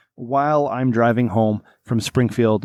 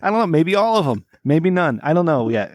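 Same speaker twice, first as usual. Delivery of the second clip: excited; 5 semitones higher than usual. Retold or imitated. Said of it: "And I'm like".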